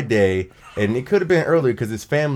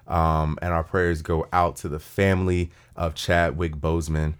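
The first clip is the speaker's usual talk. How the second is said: solemn condolences; 7 semitones lower than usual. Real, not acted. Offering condolences for Chadwick Boseman.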